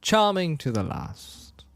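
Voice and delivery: stately acted movie villain; mock villain reply. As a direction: savour the sarcastic compliment slowly. Tarkin's reply to Leia.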